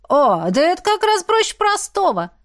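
high, eager exclamation; enthusiastic. A narrator's reading. Osha gladly explains the window climbing, enthusiastic. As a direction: jump in brightly with lifted pitch. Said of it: "Оша воодушевилась".

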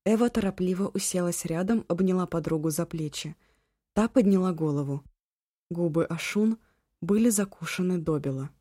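ordinary delivery, nothing marked

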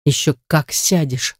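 ordinary delivery

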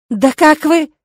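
high, loud outraged cry. Acted. Witch cutting off the rector, loud outraged cry. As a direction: spit it out in outrage. Indignant outburst.

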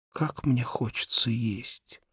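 slow longing whisper; hungry whisper. A narrator's reading. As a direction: whisper the hunger to yourself. Hungry boy longs for food. (голодный шёпот)

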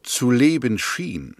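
slow, each word weighed, stress on "leben"; pointed correction. Acted. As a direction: lean hard on "leben" to correct him. Correcting the other's wording pointedly. (betont langsam, Nachdruck auf „leben“)

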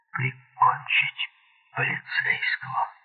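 slow, half-whispered disbelief; breath-heavy marvelling; hushed amazement. A narrator's reading. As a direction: draw it out, fading into a whisper. Hogan marvels at the killing.

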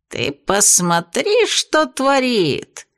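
медленно, с восторгом и выше; восхищённо присвистнуть. Acted. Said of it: "восхищённо присвистнул бес". (бес восхищается буйной девчонкой)

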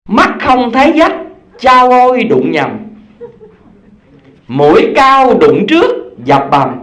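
slow sing-song verse reading; poem recitation. Acted. Preacher finishes the reading-lesson poem for the congregation, sing-song. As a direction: recite the verse with a rising lilt.

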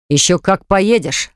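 slow, mild growl, lightly acted. Artur growls at fiancée over the phone, mild slow menace. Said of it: "зарычал он в трубку".

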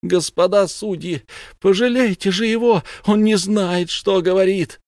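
high, loud frantic begging; screaming plea. Acted. Mother begs judges to spare her son, shrill frantic scream. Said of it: "она закричала".

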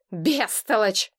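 slow indignant scolding; mild exasperated reproach. Acted. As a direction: drag out the insult. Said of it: "возмутился Миррей".

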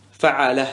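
فعالة as fa'alah, short vowels throughout; alif dropped. Shown as a demonstration. Teacher repeating the shortened pattern, فعالة without its alif. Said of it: "سيأتيك الوزن هكذا".

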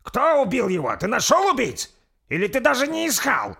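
loud, very high angry questioning; agitated demand. Acted. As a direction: refuse to calm down, press him hard. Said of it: "Не успокаивался сир Берси". (взволнованно, требовательным криком)

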